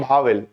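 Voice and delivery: vowel begun with a breathy Hindi "bh"; wrong pronunciation. Shown as a demonstration. Teacher warning students off it, vowel as "bhaavil". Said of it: "it's not vowel".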